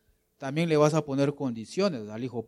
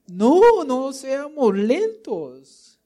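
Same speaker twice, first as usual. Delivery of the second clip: preaching shout; 10 semitones higher, 7 dB louder, much slower than usual. Acted. Preacher exhorts congregation loudly.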